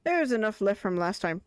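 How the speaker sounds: lightly put-on Irish accent. Streamer voicing a game character's line, Irish accent. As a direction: read it with a lilt of Irish. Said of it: "I don't know why I'm making him Irish again".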